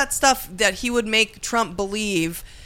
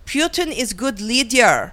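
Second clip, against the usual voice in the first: put-on slow, heavy Russian accent; slower than usual. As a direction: speak like a sultry Russian spy, slowly. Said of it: "a Russian operative?".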